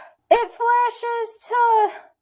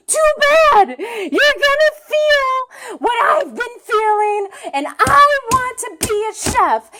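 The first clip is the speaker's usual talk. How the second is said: tearful defiance; 3 semitones higher, 3 dB louder than usual. Acted. Acts the boy's retort.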